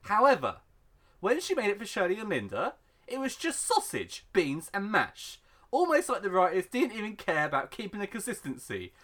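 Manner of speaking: mock-outraged read-out with big stretched emphases; dramatic post reading. Host reads a sausage surprise complaint to co-host, mock-outraged read-out. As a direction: build it into a grand complaint, punching key words.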